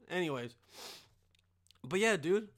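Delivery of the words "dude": ordinary talk, nothing marked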